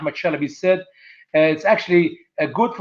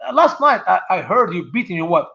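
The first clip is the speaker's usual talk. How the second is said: nosy neighbour; 4 semitones higher than usual. Retold or imitated. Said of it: "come by ... and say".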